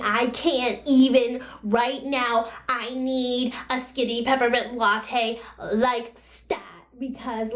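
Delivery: put-on a mild parody of a bored shopping-mad girl; valley girl voice. Mocking how guys imitate women, in a light valley girl voice. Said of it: "always talks like this".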